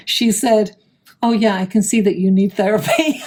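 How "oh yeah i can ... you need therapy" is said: imitated calm, level delivery; retold deadpan calm, breaking into laughter at the end. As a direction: say it evenly, mimicking a suddenly calm heckler. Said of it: "in a very calm voice".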